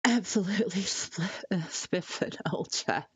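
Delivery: hammed-up posh British accent on "Absolutely spiffing old chap"; a laughing, mock-upper-class British "spiffing old chap". Shown as a demonstration. Playing a Brit for a chat that asked for British, in mock posh British. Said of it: "Is that better?".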